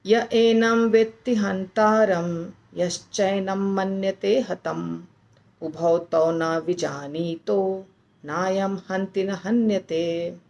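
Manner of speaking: slow, measured recitation of the shloka, pause mid-line; slow Sanskrit shloka chant; verse recitation. Shown as a demonstration. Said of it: "ऐसे".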